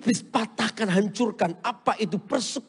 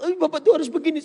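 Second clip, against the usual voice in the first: louder, insistent counselling; firm advice; 6 semitones higher, 5 dB louder, faster than usual. Retold or imitated. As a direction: press the advice hard, like a rebuke. Advising the caller firmly. (nasihat tegas dan lantang)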